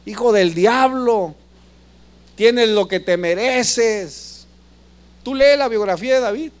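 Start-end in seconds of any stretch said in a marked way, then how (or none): 0.1-4.4 mock yell.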